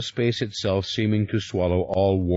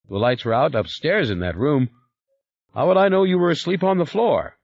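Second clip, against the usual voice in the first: higher, fast, anxious servant voice; servant Henri, rattled; 6 semitones higher than usual. Acted. Servant explaining the deaths to his boss, hurried and anxious. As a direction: babble it out, worried. Henri defends himself to Michael.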